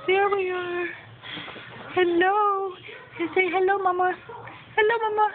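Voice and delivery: high sing-song cooing. Real, not acted. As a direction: coo at the babies like a doting parent. Cooing at the babies.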